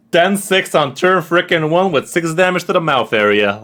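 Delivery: high, loud outraged disbelief; incredulous rant. Real, not acted. Streamer ranting at chat about the enemy's turn. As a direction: rant it like you can't believe it.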